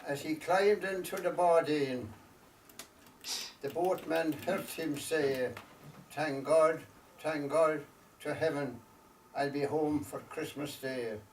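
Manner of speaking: slow, measured storytelling verse with long pauses; unhurried recital, letting each phrase settle; poem recitation. Acted. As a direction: recite it line by line as a wistful Irish ballad-poem.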